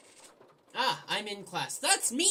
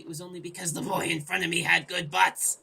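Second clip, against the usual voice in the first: louder, gleeful punchline; hammed-up exclamation; 8 dB louder than usual. Gamer reading a silly line from the game narration. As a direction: belt the line for laughs. Inserting butt jokes.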